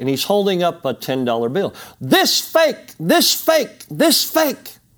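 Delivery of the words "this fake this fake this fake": play-acted, very high, shrill repeated hollering. Retelling a man running across the building holding up a bill, retelling his shout. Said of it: "he's shouting".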